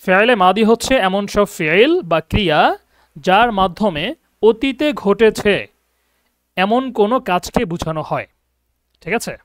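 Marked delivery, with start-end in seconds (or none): 0.0-8.3 slow, word by word, so students can write it down; slow dictation. Shown as a demonstration. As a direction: dictate the definition slowly with clear pauses. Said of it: "এটা খেয়াল করেন definition". (ধীরে ধীরে শ্রুতলিপির মতো বলা)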